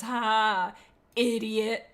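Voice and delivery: mock jeering "ha, ha"; mocking laugh. Evil badger laughing at someone running away, mocking. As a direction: act out a taunting villain's laugh. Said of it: "he's laughing all the way".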